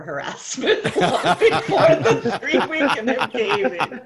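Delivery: amused, words shaken by giggles; chuckling while finishing the thought; laughing. Real, not acted. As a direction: talk through laughter. Laughing at own story.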